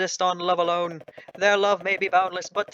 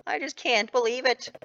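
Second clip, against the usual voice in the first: tearful; 5 semitones higher than usual. Acted. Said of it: "Stop crying".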